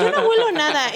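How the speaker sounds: high, loud imitation of denial; loud, high-pitched mock protest; mock indignant denial. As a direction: imitate a roommate protesting innocence. Roommate's denial, acted out.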